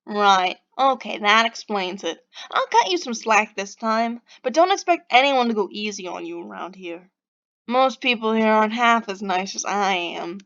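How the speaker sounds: lightly nasal, lilting bad Bostonian; grudging, faked Boston accent. Stranger letting Pixie off this time, grudging Boston accent. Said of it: "He has a nasal, lilting voice".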